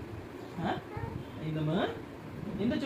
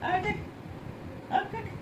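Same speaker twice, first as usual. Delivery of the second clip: much higher, soft playful coaxing; baby-talk coaxing; 10 semitones higher, 6 dB quieter than usual. Acted. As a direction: egg the baby on in a high sing-song. (పాపను ఉసిగొల్పే ఎత్తైన ముద్దు స్వరం)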